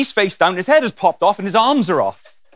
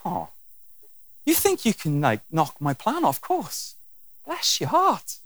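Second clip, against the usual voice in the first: amused God; 3 dB quieter, slower than usual. Acted. God looks at me and goes.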